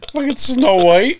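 high, slow, mock princess voice; sing-song fairy-tale princess; mock Snow White voice. Mocking the singing laugh.

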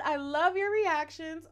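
loud, high and drawn-out, gushing; gushing fan quote. Acted. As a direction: read the fan's praise out big and slow.

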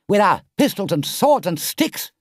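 high, loud rallying cry; shouting Rat. A narrator's reading. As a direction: shout it eagerly, joining the plan. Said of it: "shouted the Rat".

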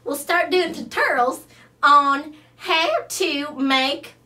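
a fussy Southern belle who flatters everyone; big, sweet Southern charm; Rhonda Lou. Acted. Rhonda Lou pitches her idea.

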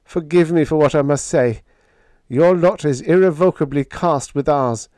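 high, pained announcement, lightly choked; a touch of choked sorrow. Acted. Biggs telling the visitors they are doomed, mildly choked. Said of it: "he said in a choked voice".

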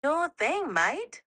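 light Australian accent, easygoing. Shown as a demonstration. AI asked for an Australian accent, giving a light Australian accent. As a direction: say it like a relaxed Aussie. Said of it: "Speaking in an Australian accent".

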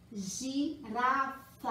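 "girafa" slowly split into gi, ra, fa; syllable by syllable. Shown as a demonstration. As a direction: sound out "girafa" one syllable at a time. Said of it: "E aí eu vou formar a palavrinha". ("girafa" devagar, sílaba por sílaba)

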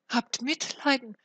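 pleading cry. A narrator's reading. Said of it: "rief der Kleine".

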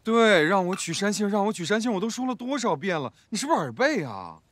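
fed-up retort; impatient. Acted. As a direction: repeat it with annoyance. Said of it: "你咋这么不耐烦".

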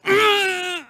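high, strained, drawn-out growl; frustrated groan. Acted. Racer in a frustrating situation, high strained groan.

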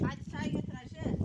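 high, loud call across the field. Real, not acted. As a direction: call her from far away. Calling Ayşe from afar.

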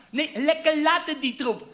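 put-on slowed down, old person's voice; slow old grandparent voice. Repeating it for grandpa, slow elderly voice. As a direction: drag it out like a frail old man. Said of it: "Opa verstaat het verkeerd".

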